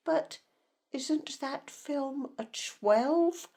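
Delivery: slow, pointed note of disapproval; disapproving question. Acted. Good mother challenging another mother over a film, disapproving. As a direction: draw the question out in mild reproach. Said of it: "familiar intake of disapproving breath".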